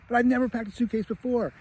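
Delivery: put-on high-pitched protesting little boy; kid Kevin. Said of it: "And he's like".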